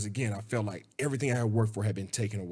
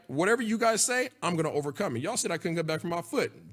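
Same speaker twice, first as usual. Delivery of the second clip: defiant; 5 semitones higher than usual. Retold or imitated. Defiant reply to his doubters.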